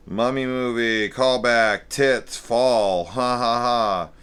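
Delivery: sarcastic list, loud and high; mocking. Real, not acted. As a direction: read the notes in mockery. Reading mocking notes.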